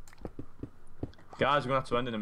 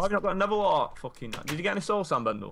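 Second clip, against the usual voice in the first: yelling across the room; 8 semitones higher than usual. Real, not acted. Shouting to teammate in game.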